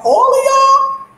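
high, slow, drawn-out disbelief; mock outraged question. Friends showing white spouses' photos, high slow mock disbelief. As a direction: stretch it high like you can't believe it. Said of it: "they be like".

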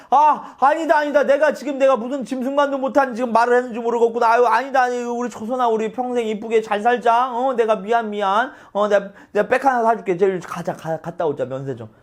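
높은 목소리로 황급히 사과하며 달래기; 우는 아내를 급히 달래듯; 허둥지둥 달래기. Retold or imitated. 동탁이 초선을 달래는 장면. (허둥대며 달래는 동탁)

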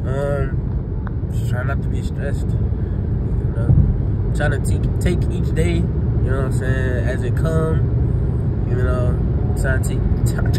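groggy, half-awake mumble; barely awake, words slurring; just woke up. Real, not acted. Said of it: "I just woke up".

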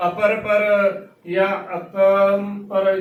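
"ਅਪਰ ਪਰ" said slowly, its nasal lost or misplaced; untrained mispronunciation. Shown as a demonstration. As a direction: slowly show how untrained readers garble "ਅਪਰ ਪਰ". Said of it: "ਆਪਣੇ ਹੀ ਤਰੀਕੇ ਦੇ ਨਾਲ ਉਚਾਰਨ".

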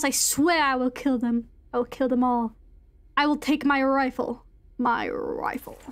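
measured, lightly theatrical reading voice; dramatic letter reading. Acted. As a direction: read it aloud as a troubled gentleman's diary. Reads an in-game letter aloud.

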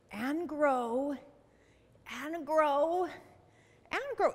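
stretched, pitch climbing with each repeat; growing upward. Pretend. Teacher leads children growing their tree branches, rising voice.

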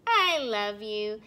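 tender. Acted. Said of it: "said to each other".

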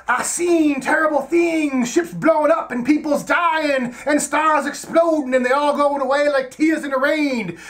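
a mock-epic slow lament; mock dramatic monologue. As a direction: parody the tears in rain speech slowly. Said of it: "Roy Batty's all like".

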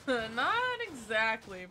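NOT exactly stretched to half speed, NOT swooping up and down; drawn-out hedge. Real, not acted. Player hedging about a win, "Not exactly" drawn out.

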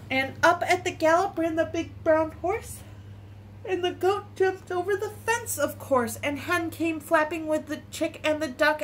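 gentle, measured story reading; picture-book reading. Acted. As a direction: read it simply for small children. Reads a picture book aloud.

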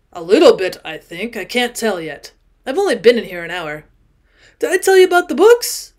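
put-on loud, emphatic tipsy old man voice; a drunk guest insisting, too loudly; drunk owl-eyed man. Tipsy man to Jordan, loud and insistent.

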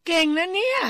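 high, loud delighted praise; impressed praise. Real, not acted. Impressed praise for co-host's right answer. (ชมเสียงสูงดังอย่างทึ่ง)

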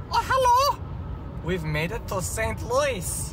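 high, drawn-out cheery greeting; Pocky. Pretend. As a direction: put on a high little character voice. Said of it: "What does Pocky have to say for you?".

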